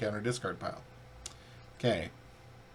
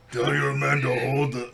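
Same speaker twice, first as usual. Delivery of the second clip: a mild attempt at a heroic voice; Captain America voice, first try; 2 semitones higher, 5 dB louder than usual. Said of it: "Nope, that's not right".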